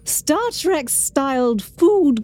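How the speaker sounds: lilting TV chef delivery; Julia Child voice. Pretend. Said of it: "what accent or style should I do it in".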